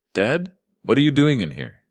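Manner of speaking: lightly slurred words from too much wine; slightly slurring daughter. A narrator's reading. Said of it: "her voice slurring slightly".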